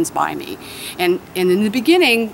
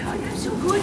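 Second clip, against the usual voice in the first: much higher, gushing praise; excited dog praise; 12 semitones higher, 6 dB quieter than usual. Real, not acted. Trainer rewarding her dog for coming, high gushing praise. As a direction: lift the voice way up to reward him.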